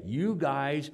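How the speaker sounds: loud rebuke of hypocrites; Jesus rebuking. Retold or imitated. Jesus rebuking the religious leaders, loud and stern. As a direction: hammer the leaders with each charge. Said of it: "he talks to the religious leaders".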